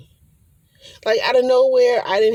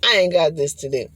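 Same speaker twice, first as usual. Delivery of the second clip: louder and firm, the line landed; found it; 5 dB louder than usual. Shown as a demonstration. Remembering the spirit's words, louder and certain. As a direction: say it out, sure of it now. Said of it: "There it go".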